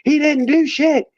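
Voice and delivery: impassioned dismissal, retold; imitating irate critics. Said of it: "veins busting out they fucking head".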